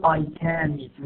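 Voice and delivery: CAN said in full with an unreduced vowel; wrongly stressed CAN. Shown as a demonstration. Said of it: "ما بنقول".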